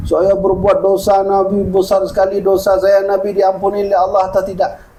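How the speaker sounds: imitating a weeping youth confessing; mock tearful confession. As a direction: wail the confession out in an acted sob-like chant. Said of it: "Coba tahan dulu tangisnya".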